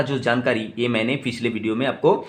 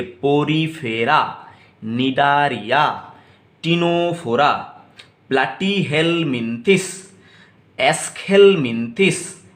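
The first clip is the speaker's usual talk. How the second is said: slow, louder drilled names, each stressed; call-and-repeat; 2 semitones higher, 3 dB louder, slower than usual. Shown as a demonstration. Teacher leads the class in a repeat-after-me drill, slow and emphatic. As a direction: lead the class through the list, each name clearly. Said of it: "मेरे साथ एक बार बोलने का कोशिश कीजिए".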